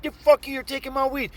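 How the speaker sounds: high-pitched indignant retort; acted defiance. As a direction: argue back at the mugger. Defiant reply in acted quarrel.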